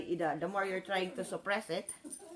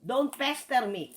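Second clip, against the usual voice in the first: firm warning; 4 semitones higher, slower than usual. Real, not acted. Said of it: "I said".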